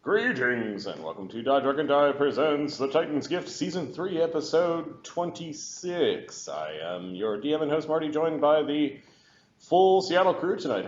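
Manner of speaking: upbeat show opening announcement; show host intro. Acted. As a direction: welcome everyone like a host. DM opens the show.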